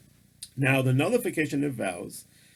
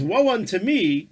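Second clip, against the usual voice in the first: God's lament; 6 semitones higher, 5 dB louder than usual. Retold or imitated. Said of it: "But when he says".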